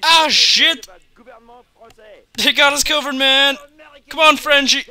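high, loud panicked shouts; panicked yelling. Real, not acted. Gamer ambushed by a swat team, yelling in high loud panic. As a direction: yell like you're suddenly under fire.

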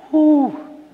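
high, loud exhaled whew; emotional whew. Real, not acted. Father collecting himself after daughter's kiss story, emotional whew. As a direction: blow out a high whew to recover.

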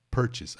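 "purchase" as PER-chis, first syllable stressed; correct pronunciation. Shown as a demonstration. Teacher models "purchase" again. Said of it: "Atenção à pronúncia".

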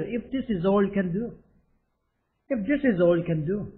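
very slow, every word clear; slow model reading. Shown as a demonstration. Teacher drilling the sentence slowly for the class. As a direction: lay it out slowly for learners. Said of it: "이거죠".

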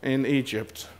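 drawn-out wail, starting high and loud, fading; hammed-up grumbling, every word stretched slow; mock complaining. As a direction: moan it out very slowly, sinking away. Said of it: "Complaining, murmuring, saying".

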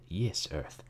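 "yis earth" with a y sound for th; archaic pronunciation. A narrator's reading. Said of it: "why he didn't say".

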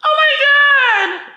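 high, slow mock gasp; S caught out. S caught in the act, high drawn-out gasp. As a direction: stretch it out high like she's been caught. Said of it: "S is like".

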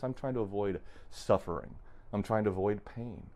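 normal talking voice

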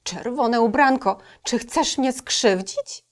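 a nervous wolf asking; timid wolf. Acted. Wolf asking the girl, lightly voiced and timid.

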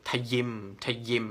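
ทะยิม, "time" broken into ta-YIM; jolted wrong syllables. Shown as a demonstration. Tutor warns students against this mistake, jolted wrong syllables. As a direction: split it into two jolted syllables, ทะ-ยิม. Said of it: "อย่ากระแทกเสียงนะ".

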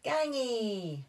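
put-on high loud toddler cheer; high babyish Gangy. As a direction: cheer like a little boy. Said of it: "cheered George".

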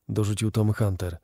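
ordinary delivery

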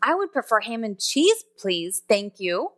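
pleasant rising, polite order; friendly, courteous customer tone; polite request. Shown as a demonstration. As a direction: order it courteously, lifting on cheese. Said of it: "three different tones of voice".

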